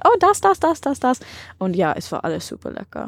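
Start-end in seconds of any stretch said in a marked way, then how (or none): 0.0-1.2 high excited shopkeeper. Retold or imitated. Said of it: "sie haben gesagt".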